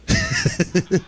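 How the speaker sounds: put-on chuckle for the congregation; mock a doubter's little laugh; short staged snicker; demonstrated laugh. Shown as a demonstration. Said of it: "Look at somebody say".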